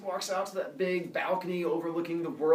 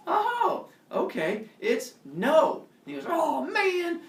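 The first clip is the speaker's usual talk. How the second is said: 1 teasing; 7 dB louder, much slower than usual. Acted. Prometheus teasing, Zeus disappointed.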